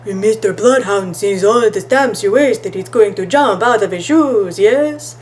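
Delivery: a lightly put-on professor voice; mimicking the professor. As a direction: tease him like the pompous professor. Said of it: "Ricardo mimicked the professor's voice".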